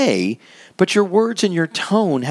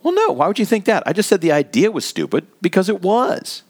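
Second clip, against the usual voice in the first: defensive protest; 6 semitones higher than usual. Acted. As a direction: push back as if the charge is absurd. Eddie defensive.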